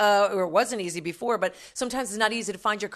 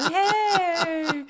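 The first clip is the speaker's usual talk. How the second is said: playful high-pitched holler; mock calling out; 8 semitones higher than usual. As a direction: holler it out high and long, laughing. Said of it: "middle of the Y M C A going".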